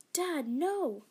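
high loud desperate cry; shout. Acted. Sister shouting to stop her father: high loud plea. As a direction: scream for Dad to stop. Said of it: "she shouted".

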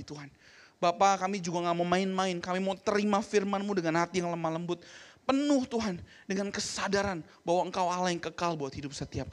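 earnest spoken prayer to God; fervent leading prayer. Acted. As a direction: pray aloud for the congregation. Leads congregation prayer.

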